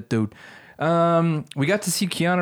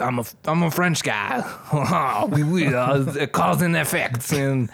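put-on French accent. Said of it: "This is the worst French accent".

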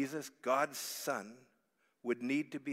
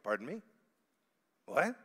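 confused disciples; 3 semitones higher than usual. Retold or imitated. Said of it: "some of the disciples going".

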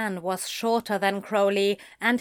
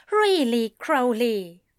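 irritated rebuke; 3 semitones higher, 4 dB louder than usual. Acted. Annoyed rebuke in dialogue.

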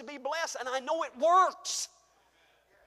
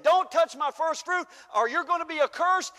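God's warning; 2 semitones higher, 6 dB louder than usual. Acted. Voicing God's warning loudly.

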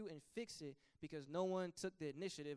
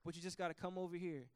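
gently coaxing, swelling to louder calls; God inviting; 5 dB louder than usual. Acted. God calling the fallen sinner back, coaxing. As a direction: call the sinner back with open arms. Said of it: "and he's saying".

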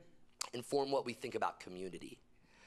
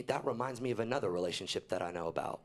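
voice of God; 7 semitones lower than usual. Retold or imitated. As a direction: speak as God, calm and low. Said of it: "I just heard God say to me".

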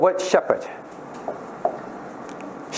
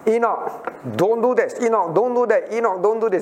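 higher, nagging mother's voice; scolding mommy; 5 semitones higher than usual. Retold or imitated. Teacher plays a mom nagging little Enoch, higher scolding voice. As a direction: nag him like a busy mom.

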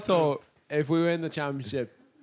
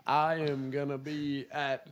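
mock American footballer; 3 semitones higher, 5 dB louder, slower than usual. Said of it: "Like all those fucking American footballers that are like".

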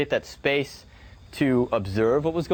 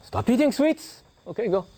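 guru's command; 7 semitones higher than usual. Retold or imitated. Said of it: "And he says to the boy".

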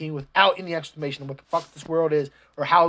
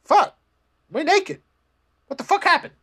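mock shocked outburst; 11 semitones higher than usual. Stripped farmers reacting to the cutscene, high mock panic. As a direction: squeal it like stripped dudes caught out. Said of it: "They're just like".

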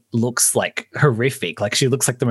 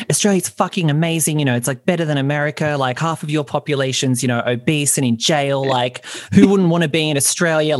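higher, fast, heated defence of Australia; mock defensive rant; 4 semitones higher than usual. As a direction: defend your country with mock outrage. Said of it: "I'll get really defensive".

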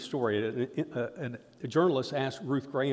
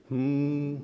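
group hum. Real, not acted. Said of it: "Okay, let's do it".

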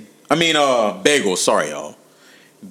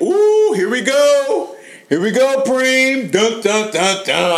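excited buildup, higher and louder; hype-up; 10 semitones higher, 3 dB louder, slower than usual. Real, not acted. Host hyping up Preem for the breakfast round, excited.

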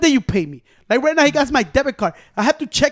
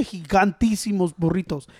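drawn-out quote; 3 semitones lower, 5 dB quieter, slower than usual. Retold or imitated. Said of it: "¿Cómo se dice?".

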